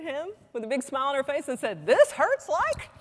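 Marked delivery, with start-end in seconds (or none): 1.9-2.9 high, loud and slow, strained pain; pained dying woman. Retold or imitated. Dying woman waking to tell her doctor, pained high cry. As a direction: stretch it out like sudden pain breaking through.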